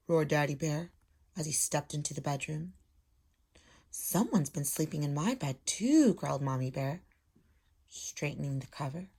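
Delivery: storybook read-aloud voice; lively picture-book reading; reading to children. Acted. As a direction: read it like a teacher to her class. Teacher reads story aloud.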